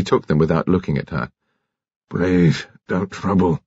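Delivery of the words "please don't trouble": understated groaning, as if hurting; pained groan. A narrator's reading. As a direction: groan it out in pain. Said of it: "he groaned".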